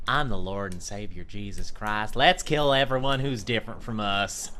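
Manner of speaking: mock preacher Jesus, lightly voiced; hammed-up zealot Jesus rallying a crowd; a hint of a fanatical preacher Jesus; crazy evangelical Jesus. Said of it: "the crazy evangelical Jesus who's like".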